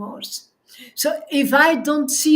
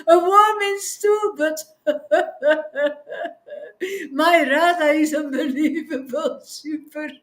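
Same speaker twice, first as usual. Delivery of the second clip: humble devotee; 3 semitones higher than usual. Retold or imitated. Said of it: "A Prema Bhakta says".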